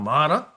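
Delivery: "mana" said with a rolled tongue. Shown as a demonstration. Showing the audience a Māori word, rolled tongue. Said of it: "roll the tongue".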